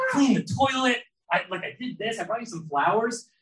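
mock whine. Teasing wife, whining for praise.

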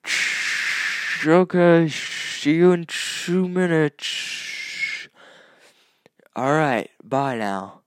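high, loud and distant, slow; shouting from the shower over the water; from another room. Shown as a demonstration. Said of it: "let me demonstrate what it would sound like".

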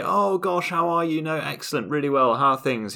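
mock-posh enthusiasm at a chance meeting; gushing English politeness. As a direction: play the overkeen Brit who'll never follow through. Imitates two Brits meeting on street.

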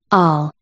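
"all" set apart with weight; emphatic ALL. A narrator's reading. The king repeating to Alice, "all" emphasized. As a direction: lean on the word "all". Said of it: "repeated with great emphasis".

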